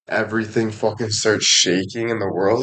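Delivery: ordinary talk, nothing marked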